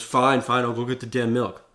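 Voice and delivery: annoyed husband caving in to the chore; grudging fine. Retold or imitated. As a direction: snap a reluctant fine fine. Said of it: "That guy failed".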